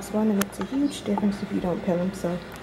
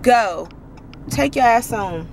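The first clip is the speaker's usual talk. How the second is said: road rage. Real, not acted. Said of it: "I get severe road rage".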